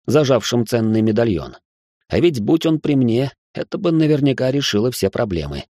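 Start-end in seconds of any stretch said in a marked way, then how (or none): none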